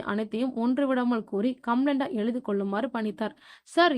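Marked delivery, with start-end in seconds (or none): 3.6-4.0 high, loud, stretched-out "sir" in shock; shocked drawn-out call. A narrator's reading. Constable Saami, stunned by the news, drawn-out shocked cry. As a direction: gasp the word out, stunned. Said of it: "என அதிர்ச்சியா இழுத்த".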